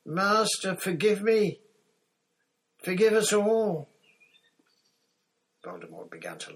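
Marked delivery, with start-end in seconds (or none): 0.0-3.9 loud, high-pitched frantic pleading; terrified shrieking. A narrator's reading. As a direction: shriek it, begging for mercy. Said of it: "he shrieked".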